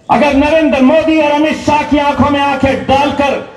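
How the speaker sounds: full-voiced political speech to a crowd; fiery rally oration. Speaker at a rally hailing his leader Owaisi, fiery oration. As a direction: rouse the crowd, lines thrown out to the back.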